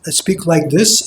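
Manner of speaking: dull tone without a smile on "speak like this"; "speak like this" with a dull, unsmiling tone; not bright. Shown as a demonstration. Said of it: "it's not bright".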